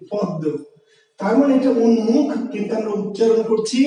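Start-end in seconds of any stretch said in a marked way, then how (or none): 0.1-0.4 পদ্ম said softly and short, as it is really spoken; পদ্ম dropped low, in its spoken form; spoken pronunciation. Shown as a demonstration. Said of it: "আপনি উচ্চারণ করছেন কিন্তু কি". (পদ্ম নরম করে উচ্চারিত রূপে)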